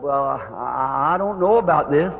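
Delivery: slow, hesitant start; nervous fumbling. Retold or imitated. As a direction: imitate a mildly nervous speaker stalling. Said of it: "I was fumbling real nervous".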